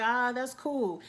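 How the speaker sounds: slow, underwhelmed husband; unemotional. Retold or imitated. Husband reacting to his wife's good news, unemotional. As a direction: imitate a barely interested reply. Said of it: "he doesn't have a range of showing emotions".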